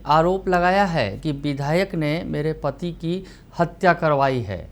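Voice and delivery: brisk, emphatic TV news delivery; news anchor read. Acted. Anchor presents the murder story to viewers, news read.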